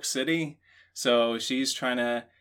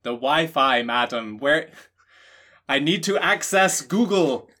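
higher, louder doddering confusion; mock confused old lady; 5 semitones higher, 5 dB louder than usual. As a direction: stumble over the foreign word. Confused person asking for Wi-Fi.

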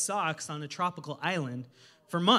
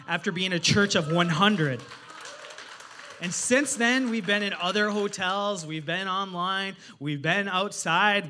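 loud, slow, driving sermon climax; rising church-service fervor; preaching at full force; 4 dB louder, slower than usual. Acted. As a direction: preach it out, each line hammered.

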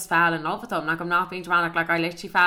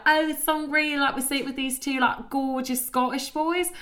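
put-on gushing English girls; 7 semitones higher than usual. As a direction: imitate excited girls, pitched well up. Voicing the English girls' gushing reply.

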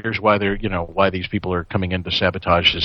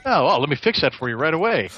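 mock eager server; 5 semitones higher, faster than usual. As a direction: gush it like a fawning waiter. Mock servile employee reply.

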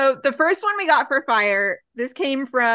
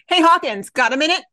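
Severide voice; 5 semitones higher than usual. Acted. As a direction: call out to a buddy across the firehouse. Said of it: "I'll take Severide".

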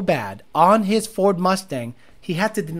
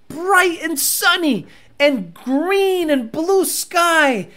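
dreamy, slow; 7 semitones higher, much slower than usual. Acted.

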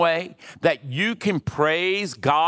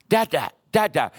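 put-on toddler babble; faster than usual. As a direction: answer your dad like a toddler. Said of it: "And he go".

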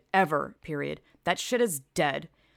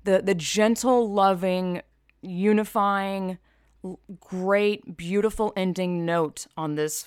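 loud, slow, dripping sarcasm; mock-sweet sarcastic praise, pushed loud; 4 dB louder, slower than usual. Real, not acted. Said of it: "this is sarcasm".

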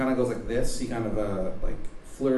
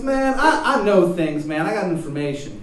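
high, loud, bad Baltimore accent; shitty Baltimore accent; 7 semitones higher, 9 dB louder than usual. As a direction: introduce yourself in a hammed-up Baltimore accent. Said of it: "shitty Baltimore accent".

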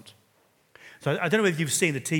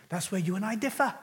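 attempted Welsh accent; 8 semitones higher than usual. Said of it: "I can't quite do the accent".

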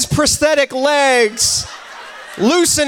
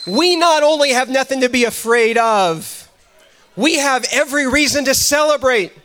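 fervent sermon delivery; a pastor exhorting his church; preaching; 2 semitones lower than usual. Acted. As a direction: preach it with conviction. Preaching to congregation.

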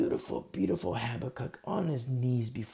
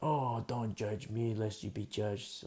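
slow, softer mocking whine; mocking whiny objector; 3 semitones lower, 6 dB quieter, slower than usual. Preacher mocking a believer who dodges correction, whiny. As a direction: mimic a defensive churchgoer. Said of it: "mocking imagined objector".

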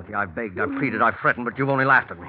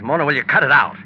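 angry; 2 semitones higher, 8 dB louder than usual. Acted. Bill loses patience with Mona.

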